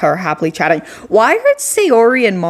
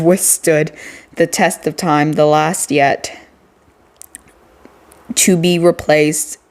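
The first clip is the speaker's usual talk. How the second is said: poem reading. Acted. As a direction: read it like a moody poem. Reads a poem aloud.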